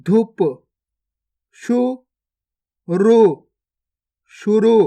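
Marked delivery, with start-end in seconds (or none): 1.6-3.2 गुफा drawn out very slowly, each sound held long; slow stretched reading. Shown as a demonstration. Teacher showing pupils each sound, drawn out very slowly. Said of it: "पहले तो आपको शब्द को गौर से सुनना है".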